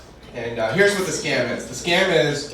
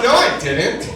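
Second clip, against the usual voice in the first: higher-pitched comic denial; mock denial; 5 semitones higher, 3 dB louder, slower than usual. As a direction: deny it indignantly, pitch raised. Acted argument with friend.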